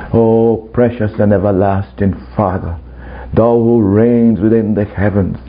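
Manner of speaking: lightly mocked pious formality; formal religious prayer. Religious hypocrite addressing the Father, lightly put-on formal prayer. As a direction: pray with a touch of stiff ceremony. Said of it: "religious or formal".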